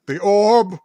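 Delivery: dramatic summoning sorceress; grand spooky narration. Acted. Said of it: "I am Magpie".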